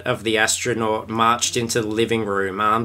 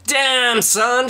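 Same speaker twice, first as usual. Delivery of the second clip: impressed exclamation; 12 semitones higher than usual. A narrator's reading. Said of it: "thought Elliot".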